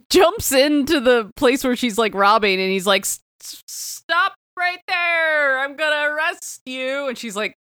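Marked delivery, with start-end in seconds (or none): 3.0-7.1 halting, drawn-out bad French accent, pitched higher; mock French, stretching the words out high; terrible French accent. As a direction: stammer into a slow, badly done French accent. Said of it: "In a terrible French accent".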